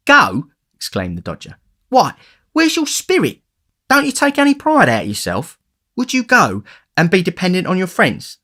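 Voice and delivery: shocked that anyone would want to leave; scornful astonishment. A narrator's reading.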